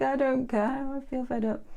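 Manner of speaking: imitated petulant child's whine; sulky little boy. Sulker refusing the universe's gift, mock childish whining. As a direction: whine it like a fed-up kid. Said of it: "it's kind of that".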